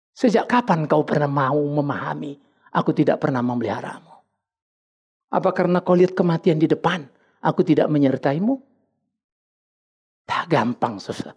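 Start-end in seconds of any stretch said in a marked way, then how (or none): 0.1-8.6 low, measured divine rebuke; voice of God. Acted. God questions the doubting believer, low and measured. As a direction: answer the plea calmly, pitched down.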